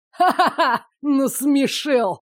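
high mocking laugh, then a slow jeer; villain's scornful guffaw; mocking laughter. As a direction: laugh in their faces. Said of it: "расхохотался колдун".

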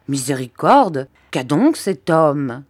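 slow, exasperated outburst; impatient exclaim. Acted. Aunt exasperated by the silent doctor, slow impatient outcry. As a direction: lose patience with him. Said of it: "s'écria ma tante de plus en plus impatientée".

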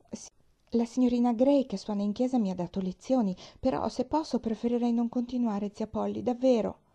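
a hint of a chatty young girl; eager little girl. Pollyanna answers her aunt, eager and a little flustered.

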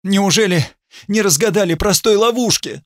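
high angry cry at him; angry shout. Acted. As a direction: snap it out in outrage. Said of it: "выкрикнула с гневом".

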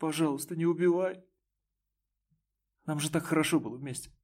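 high, tearful, rushing plea; tearful begging. A narrator's reading. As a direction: plead for your life through sobs. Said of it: "она разрыдалась".

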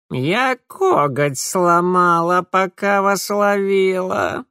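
slow, creaky indignant complaint; indignant Mara. A narrator's reading. Mara indignantly showing her broken claw. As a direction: complain with wounded pride. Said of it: "возмутилась Мара".

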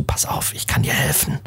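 hushed, breathy whisper of a tempter. Retold or imitated. Disguised Loki whispering to the brother, secret whisper. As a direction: lean in close and whisper „Pass auf, ich kann dir helfen.“. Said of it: "flüstert ihm so zu".

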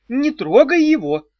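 high, loud protective cry; shout. A narrator's reading. Ulita shouts at Arey to protect Issorkh. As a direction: yell to shield him. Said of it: "крикнула Улита".

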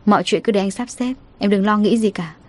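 a light touch of a husband's comfort; reassuring husband. Acted. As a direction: gently settle her fears. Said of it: "Cảnh Long trấn an".

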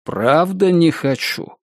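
slow, earnest reassurance; gently, almost heartfelt. Acted. Attacker assures captive he means no harm, gently. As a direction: insist gently, taking your time. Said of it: "сказал он мягко, чуть ли не сердечно".

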